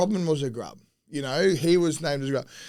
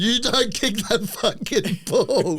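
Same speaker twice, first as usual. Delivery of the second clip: Coops laying into him; 7 semitones higher than usual. Retold or imitated. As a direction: imitate an uncompromising dressing-down. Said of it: "Coops is fucking into me".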